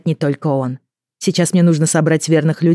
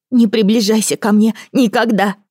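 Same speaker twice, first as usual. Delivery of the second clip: hysterical shout; 7 semitones higher than usual. A narrator's reading. Son in hysterics screaming at his mother. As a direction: shriek at her to stay away. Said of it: "Ил забился в истерике".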